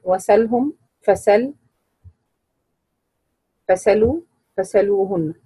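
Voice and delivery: "وسلهم، فسل، فسلوا، فسلوهن" with fatha on the sin, no hamza; naql, hamza dropped. Shown as a demonstration. Teacher listing examples, "وسلهم، فسل، فسلوا، فسلوهن" with naql. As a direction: say each of "وسلهم، فسل، فسلوا، فسلوهن" separately, without glottal stop. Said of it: "فنقل الفتحة إلى السين وأسقط الهمز".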